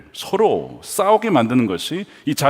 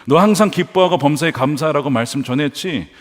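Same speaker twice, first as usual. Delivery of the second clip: acted Goliath jeer, building in pitch; needling challenge that climbs higher; mocking taunt; 3 semitones higher than usual. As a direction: pile up scornful questions, rising as you go. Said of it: "라고 조롱하는 거예요".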